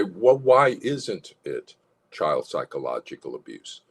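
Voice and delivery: firm, slow, assertive challenge; power assertion. Shown as a demonstration. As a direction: demand it with angry authority. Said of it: "the power assertion and, and voice one".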